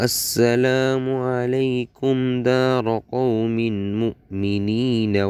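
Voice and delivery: slow, measured reciting with stretched vowels; dua recitation. Shown as a demonstration. Teacher models the joined phrase for learners, slow recitation. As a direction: join the syllables into a drawn-out recitation.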